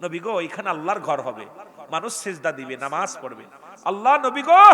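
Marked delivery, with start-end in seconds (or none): 3.8-4.6 high, loud call rising at the end; impassioned appeal. Acted. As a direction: cry out in appeal, lifting the last word. Acted appeal to the Prophet. (আবেগভরা উঁচু গলায় ডাক)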